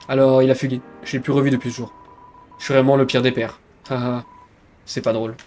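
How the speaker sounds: low-key, understated regretful father; downcast comedian father. Acted. Father lamenting his runaway son, understated gloom. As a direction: let it sink softly toward the ends.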